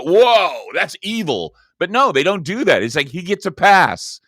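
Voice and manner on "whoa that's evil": high, loud mock gasp of horror; mock shock. Host imagines the crowd's reaction, mock shocked. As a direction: feign being shocked. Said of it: "everybody would go".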